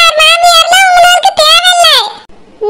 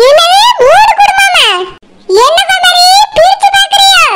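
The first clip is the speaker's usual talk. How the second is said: mocking laughter; 2 semitones higher than usual. Mother-in-law mocks three families.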